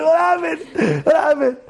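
high, slow, crying shout; panicked enemy. Pretend. Enemy soldier seeing the dirt turn deadly, panicked. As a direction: wail in confusion.

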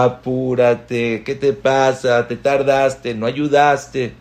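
hurried, irritated nagging before Shabbat; a hint of frazzled impatience; mock stressed scolding. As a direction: nag the family while rushing. Acting stressed Shabbat prep.

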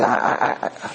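stammering, at a loss; flustered. Acted. Shocked roommate doesn't know what to say, flustered. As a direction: stumble on the first word. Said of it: "he doesn't know what to do".

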